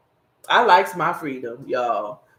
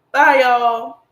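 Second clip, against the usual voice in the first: cheery goodbye; 7 semitones higher, 8 dB louder than usual. Real, not acted. Final sign-off to viewers.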